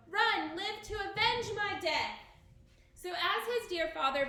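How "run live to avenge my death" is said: high, loud, urgent gasp; gasped plea. A narrator's reading. Dying father urging his son to run. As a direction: beg him to run with his last breath. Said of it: "gasped Banquo".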